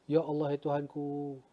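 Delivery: soft, pleading prayer; retold supplication. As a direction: surrender to God in a hushed voice. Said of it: "saya tadas tangan pada Allah". (doa berserah dengan suara perlahan)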